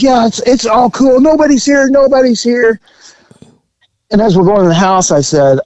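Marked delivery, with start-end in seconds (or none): 0.0-2.8 high raised mock-innocent reassurance; imitating the woman. The woman assuring the cop the house is empty, raised and too eager. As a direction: chirp nobody's here, too eager. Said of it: "She goes".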